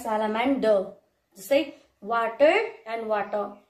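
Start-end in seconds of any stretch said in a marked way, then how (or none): 0.0-0.9 British "salamander" with a silent final R; British accent. Shown as a demonstration. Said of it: "like, R is silent". 2.0-2.5 American "water" with the final R sounded; American accent. Shown as a demonstration. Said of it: "like, R is silent". 3.1-3.6 British "water" with a silent final R; British accent. Shown as a demonstration. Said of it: "like, R is silent".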